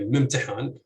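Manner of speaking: "mimtihan" with stress on its second heavy syllable, HAN. Shown as a demonstration. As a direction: land the beat on the last syllable of "mimtihan". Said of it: "with stress on the second heavy syllable".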